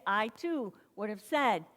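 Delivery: normal talking voice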